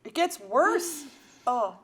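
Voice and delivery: strained talk with a burning tongue; mouth burning from spicy food. Real, not acted. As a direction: speak past the heat in your mouth. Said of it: "My mouth is burning out".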